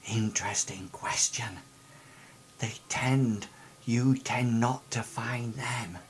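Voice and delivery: soft secretive warning; hushed. Acted. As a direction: murmur it like a conspirator. NPC whispering warning.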